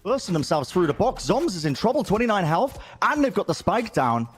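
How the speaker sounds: high, excited esports call; esports caster. Acted. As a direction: ride the rising action. Live play-by-play commentary.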